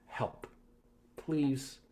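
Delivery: ordinary talk, nothing marked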